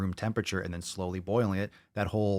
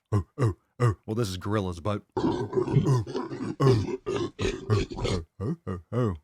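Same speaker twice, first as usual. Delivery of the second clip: excited yelps. Real, not acted. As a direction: yelp with excitement.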